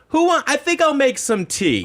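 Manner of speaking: put-on a very old aunt offering tea she can't make; imitating a ninety-eight-year-old aunt; frail old aunt. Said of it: "Auntie Rue was like".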